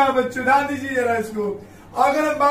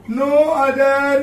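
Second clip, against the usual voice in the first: slow emphatic dictation; 4 dB louder, much slower than usual. Shown as a demonstration. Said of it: "यहाँ पे rule है no other case".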